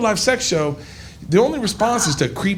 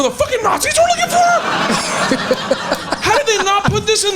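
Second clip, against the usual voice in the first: shocked yell; faster than usual. Retold or imitated. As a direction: shout it like you just learned this. Mock outrage retold.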